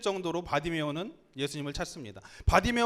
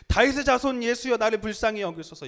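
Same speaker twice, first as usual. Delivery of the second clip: raised, higher pleading shout; crying out louder; 5 semitones higher, 5 dB louder than usual. Acted. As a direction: call out over the crowd. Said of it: "더욱 크게 소리 질러 이르되".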